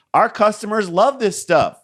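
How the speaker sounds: high, drawn-out mock protest; mock defensive. Voicing crack dealers defending their product, mock defensive.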